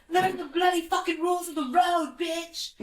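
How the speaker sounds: high-pitched mock shout in local accent; hammed-up road-rage yell; imitated angry driver.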